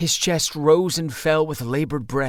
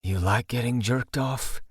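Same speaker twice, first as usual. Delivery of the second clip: husky voice; 2 semitones lower than usual. Acted. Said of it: "I asked in my huskiest voice".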